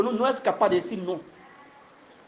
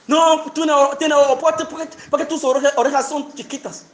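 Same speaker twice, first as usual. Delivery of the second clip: mocking critic; 4 semitones higher than usual. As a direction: sneer it like a bully mocking ears.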